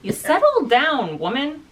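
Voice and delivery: high, slow teasing scold; play-scold your overexcited friend; mock scolding. Teasing friend after spit choke.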